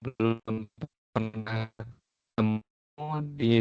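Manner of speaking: broken-up voice over a bad connection; glitchy call audio dropping out; choppy audio. Real, not acted. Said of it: "Suaranya putus-putus". (suara putus-putus)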